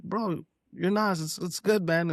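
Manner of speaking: lifted, drawn-out fan awe; starstruck reassurance. Retold or imitated. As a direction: gush at your hero, slowly. Reassuring a rapper after his apology.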